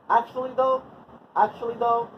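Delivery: high chant for others to repeat; demonstrated call-out. Shown as a demonstration. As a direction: pitch it high and hang on the last word. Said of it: "say it with me".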